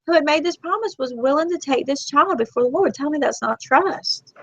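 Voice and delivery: high, emotional, crying voice; tearful. Real, not acted. Telling of a mother giving up her child, tearful. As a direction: keep talking through rising tears. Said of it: "Look, I'm fixing to cry now".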